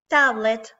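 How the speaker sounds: "tablet" said with spread lips, relaxed; relaxed smiley vowel in "tablet". Shown as a demonstration. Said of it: "pronounce it smiley".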